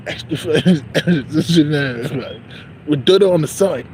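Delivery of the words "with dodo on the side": playful mock British-Nigerian accent. Customer adding a side dish, mock British-Nigerian accent. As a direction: put on a British-Nigerian lilt. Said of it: "Like a British and Nigerian".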